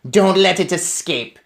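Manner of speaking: witch queen. Acted.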